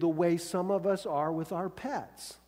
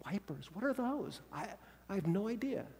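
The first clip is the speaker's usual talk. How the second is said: baffled coworker; 3 semitones higher, 9 dB quieter than usual. Retold or imitated. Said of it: "they're like".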